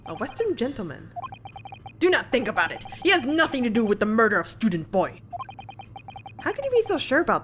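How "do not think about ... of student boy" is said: a hammed-up Russian sailor, snarling; bad Russian accent. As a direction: growl it out in a mock Russian accent. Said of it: "my very bad Russian attempt".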